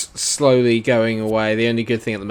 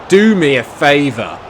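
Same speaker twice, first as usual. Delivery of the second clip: exasperated; 5 semitones higher, 9 dB louder than usual. Real, not acted. Frustrated at his bogey team.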